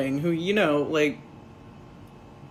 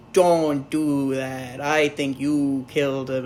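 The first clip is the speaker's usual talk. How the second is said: slow, low gruff Batman; a hint of a stern Batman; lightly voiced Batman; 4 semitones lower, slower than usual. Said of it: "he's like".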